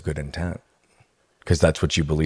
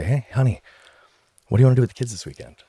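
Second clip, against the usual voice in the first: light, higher, quick sweet wife voice; imitating wife sweetly; 5 semitones higher, faster than usual. Wife casually asking about weekend plans, light and sweet. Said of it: "And she'd say".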